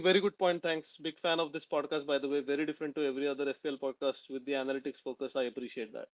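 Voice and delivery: put-on reading the comment in an Indian accent. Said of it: "I'm gonna do my best Indian voice".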